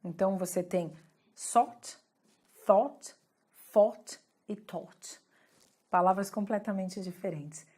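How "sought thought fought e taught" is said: "sought, thought, fought e taught", each first consonant distinct, long gaps between; contrasted first sounds. Shown as a demonstration. Teacher contrasting four words for students, "sought, thought, fought e taught" carefully articulated. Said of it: "a diferença que tem no som".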